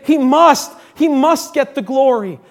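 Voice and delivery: emphatic declaration. Acted. Preacher voicing John's declaration, loud and emphatic. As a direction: proclaim it with force. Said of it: "this emphatic declaration".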